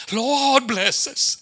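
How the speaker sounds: lightly imitated pleading prayer; mock tearful prayer. Preacher imitates struggling ministries praying, mock pleading. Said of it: "people are crying and fasting and praying".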